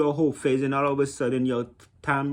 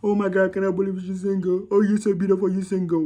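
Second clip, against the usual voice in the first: smitten guy imitation; 5 semitones higher than usual. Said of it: "guys be getting tricked".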